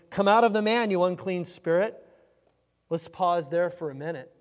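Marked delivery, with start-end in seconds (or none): 0.1-2.0 loud order, easing slightly at the end; forceful command. Acted. Jesus orders the demon out of the man, forceful command.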